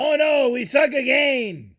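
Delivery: very high, drawn-out comic wail; hammed-up film-quote accent; Rob Schneider. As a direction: wail it slowly like a comic bit player. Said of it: "you gotta do it with the accent".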